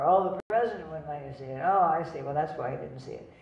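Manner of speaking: hammed-up mock sympathy; mock teasing. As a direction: rib him for the excuse. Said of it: "make fun of him even more".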